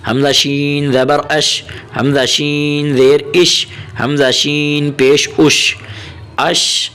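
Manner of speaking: slow, measured Arabic letter drill; teacher reciting a Qaida drill slowly; Qaida drill recitation. Shown as a demonstration. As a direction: chant the letters like a Quran teacher.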